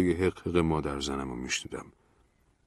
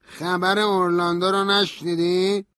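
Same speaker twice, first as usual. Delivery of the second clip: high, slowish, held-back rage; suppressed anger; 13 semitones higher, 5 dB louder, slower than usual. A narrator's reading. Stanley asks about Orlando, with suppressed anger. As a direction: keep the fury just under the lid. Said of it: "با خشم فرو خورده گفت".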